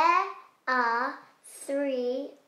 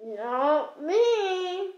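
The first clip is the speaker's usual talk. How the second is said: high, put-on pupil's denial; innocent denial; 5 semitones higher than usual. Pupil denying blame to teacher, high innocent voice.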